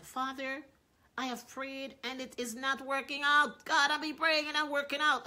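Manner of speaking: high, loud complaint to God; frustrated pleading. Retold or imitated. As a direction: whine it out, fed up with praying. Pastor acts Capps' frustrated prayer.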